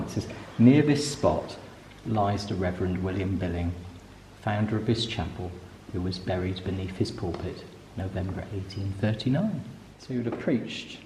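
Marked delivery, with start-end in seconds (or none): 0.6-9.6 low, quiet reading aloud; hushed plaque reading. Real, not acted. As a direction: read the memorial softly and low, as inside a chapel.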